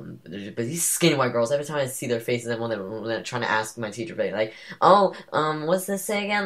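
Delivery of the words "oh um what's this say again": high, mocking classmate voice; lightly mocking, airy question; mock whiny girl. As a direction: imitate a clueless girl asking again. Mocking classmates asking teacher.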